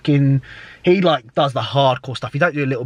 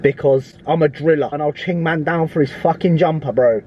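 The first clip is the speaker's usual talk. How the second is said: drill rapper persona; 3 semitones higher than usual. Acted. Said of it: "Don't know why I did that".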